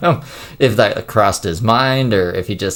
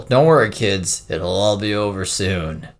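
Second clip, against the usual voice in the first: ominous; slower than usual. Retold or imitated. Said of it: "A very ominous thing to say".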